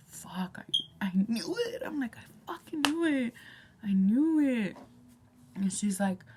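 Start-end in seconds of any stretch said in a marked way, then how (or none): 0.1-0.6 breathy hushed swear; whispered curse. Retold or imitated. Retold realization. 1.0-4.8 I knew it glee. Retold or imitated. Retold gleeful realization.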